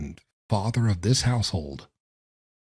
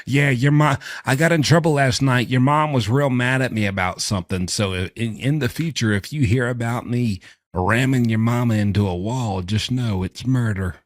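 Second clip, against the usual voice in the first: mock confessing dad; 3 semitones higher, 4 dB louder than usual. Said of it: "a premeditated confession from the dad".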